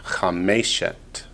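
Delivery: middle-stressed Chameshet, carefully slowed; stress on middle syllable. Shown as a demonstration. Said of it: "but on the word pair form".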